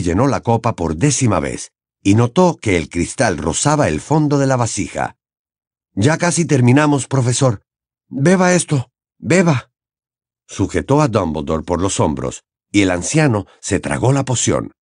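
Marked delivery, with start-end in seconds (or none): 5.9-9.7 put-on higher, pressing young voice; urging Harry. Harry pushing Dumbledore to drink, urgent. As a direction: coax him through it.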